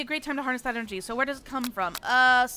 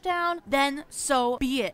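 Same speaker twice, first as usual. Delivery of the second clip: slow villain boast; 4 dB louder, much slower than usual. Acted.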